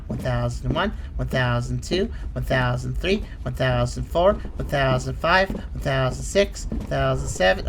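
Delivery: low, measured count with rising ends; timekeeper's low, even count; steady counting. Real, not acted. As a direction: count evenly, low, lifting each number. Counts seconds while sprinting.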